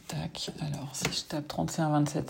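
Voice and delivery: whispered aside while typing; under the breath, reading the screen; whispering to herself. Real, not acted. Muttering while typing a search.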